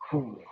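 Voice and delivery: quiet breathless puff; soft winded exhale. Real, not acted. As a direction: blow out air softly. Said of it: "got me out of breath".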